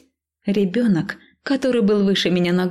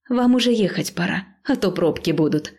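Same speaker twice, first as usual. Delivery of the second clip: forced smile. Acted. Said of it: "с максимально широкой улыбкой напомнила я".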